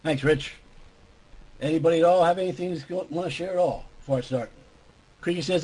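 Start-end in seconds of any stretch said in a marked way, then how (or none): 0.0-4.5 worn-out, hoarse speaking voice. Real, not acted. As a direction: talk through a tired, shot voice. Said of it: "My voice is kinda shot tonight".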